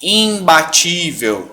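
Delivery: IMBATÍVEL with a long nasal I; slow IMBATÍVEL, IM through the nose; nasal vowel. Shown as a demonstration. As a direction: stretch IMBATÍVEL on its first vowel. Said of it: "trazer esse I pro nariz".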